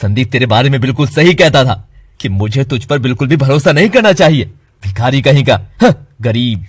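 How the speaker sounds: contemptuous yelling. Acted. Friend insulting Keshav over unpaid debt, contemptuous loud yelling. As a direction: spit out every insult.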